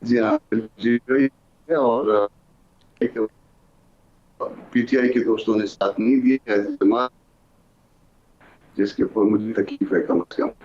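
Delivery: breaking up space radio; choppy phone line dropping out; voice cutting out. Real, not acted. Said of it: "आपकी आवाज़ cut रही है".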